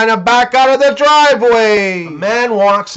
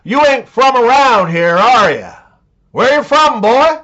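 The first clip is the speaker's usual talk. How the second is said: Texan bartender; 3 semitones higher than usual. Acted. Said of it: "The bartender looks up and says".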